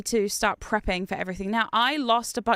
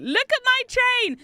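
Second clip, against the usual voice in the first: mock proud boast; slower than usual. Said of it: "and be like".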